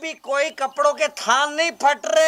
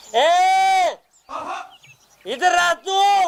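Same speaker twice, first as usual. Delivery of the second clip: shouting, much higher pitched and slower; 3 semitones higher than usual. A hungry father, waiting for food, calls someone over, shouting. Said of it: "क्यों चिल्ला रहे हो?".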